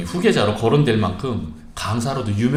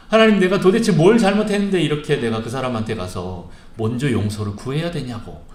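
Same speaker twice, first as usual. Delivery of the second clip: indignant retold protest, raised and a bit louder; mock arguing with God; 4 dB louder than usual. Pastor arguing with God in prayer, indignant. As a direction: push back at God as if demanding an answer. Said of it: "이렇게 막 따지듯이 물었습니다".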